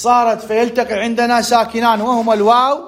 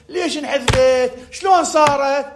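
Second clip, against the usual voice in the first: higher-pitched mock student bewilderment; puzzled student; 5 semitones higher, slower than usual. Teacher mimics a dizzy student asking how the letter vanished, puzzled. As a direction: play a confused pupil, stretching the questions. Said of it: "أول شيء طالب ليش يدوخ".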